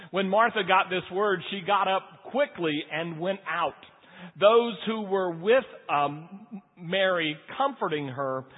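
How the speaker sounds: measured church reading voice, steady and unhurried; reading scripture from the pulpit. Acted. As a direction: read the Gospel aloud to the congregation. Pastor reads scripture passage aloud.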